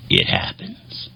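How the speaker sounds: low, slow and soft; grandpa's deadpan. Retold or imitated. Grandpa answering the grandson's question, deep and slow. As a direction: drag it out deep like a weary old man. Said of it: "And he would go".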